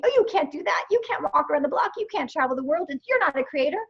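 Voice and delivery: mock the belittling inner critic; nagging inner ego. Voicing the ego that kept her small, a mock nagging voice. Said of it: "the ego making me teeny tiny".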